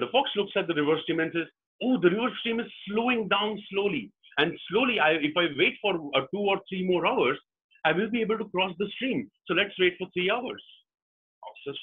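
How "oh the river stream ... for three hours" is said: higher-pitched fox working it out; mildly excited realization. Acted. Fox spots the river slowing and plans aloud, mildly excited. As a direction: think aloud with dawning, storybook excitement. Fox voiced discovering a solution.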